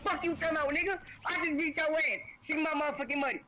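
victorious trash talk after the win; gloating. Real, not acted. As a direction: rub the win in his face. Gloating after winning the game.

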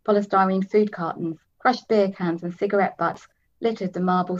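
steady reading of a novel; story narration. A narrator's reading. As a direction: read it like an audiobook. Reads novel aloud.

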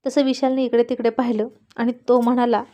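usual speaking voice

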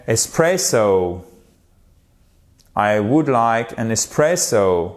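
ESPRESSO slowly, stress drawn out on PRESS; tonic stress. Shown as a demonstration. Teacher models ordering coffee, slow tonic stress. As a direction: stretch PRESS in ESPRESSO with English melody. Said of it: "cette hauteur".

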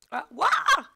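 high, loud yelp of surprise; startled scream. Real, not acted. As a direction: scream out as if ambushed. Startled during the fight. (cri de surprise aigu)

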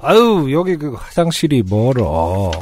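put-on slow, lazy drunk excuse; a hint of a tipsy old man.

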